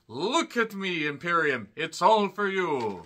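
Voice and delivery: slow, lightly put-on Austrian accent; a hint of Gunther's accent, drawn out; mock Gunther accent. Reviewer imitates Gunther speaking to Imperium, mild accent. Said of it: "I don't know what that accent was".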